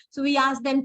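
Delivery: ordinary delivery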